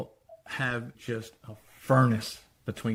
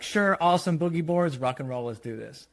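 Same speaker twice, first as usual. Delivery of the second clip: put-on higher, eager chorus of kids; 4 semitones higher, faster than usual. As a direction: cheer it like thrilled kids. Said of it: "Maddie and Finn are like".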